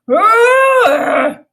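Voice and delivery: high, loud panicked cry; boy screaming in terror while fleeing; terrified scream. Acted. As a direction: scream as the zombie closes in. Zombie chasing, screaming.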